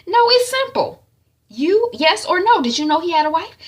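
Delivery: high, loud, insistent demand; angry interrogation. Retold or imitated. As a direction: press her for an answer. Acted interrogation of sister.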